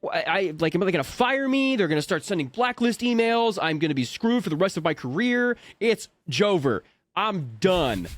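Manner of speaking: imitating a panicked spiral; mock freak out. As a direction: blurt your career fears in comic alarm. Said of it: "I'm freaking out 'cause I'm like".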